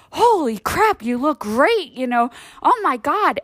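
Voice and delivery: fawning praise for a man lying about his age; mock gushing. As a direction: gush over how young he looks. People gushing over father.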